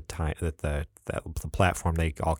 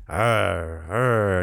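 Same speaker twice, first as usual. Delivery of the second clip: token monster growl, barely trying; half-hearted roar. Retold or imitated. Fan imitating civilized Hulk nonchalantly tossing things, half-hearted roar. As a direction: fake a lazy, unconvincing Hulk roar. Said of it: "flips it nonchalantly".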